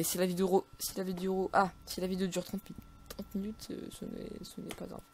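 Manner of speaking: halting, with restarts; distracted, faltering delivery; struggling to speak. Real, not acted. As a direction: stumble over the words while concentrating. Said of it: "J'ai du mal à parler".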